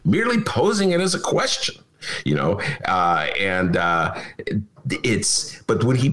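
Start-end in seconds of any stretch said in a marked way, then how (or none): 0.0-1.8 high, innocent Trump impression. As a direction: play innocent, just asking questions. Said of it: "he can sort of divorce himself from, like".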